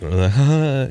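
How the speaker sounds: put-on courtesy chuckle; high, token polite laugh. Shown as a demonstration. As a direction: imitate an audience member laughing just to be polite. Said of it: "just being polite".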